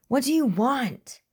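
voice cracking. A narrator's reading. To the man holding his friend, cracked-voice demand. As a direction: let the voice break high on the question. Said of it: "William's voice cracked".

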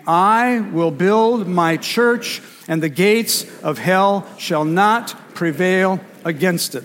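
slow, measured scripture reading in unison; read aloud together. Real, not acted. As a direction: read it with the congregation, steady and slow. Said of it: "read it with me".

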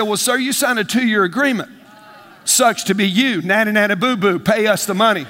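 gloating nanny-nanny boo-boo taunt; mocking company rep. Preacher mimics the phone company gloating over his bill, mocking. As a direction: sneer it like a smug rep rubbing it in.

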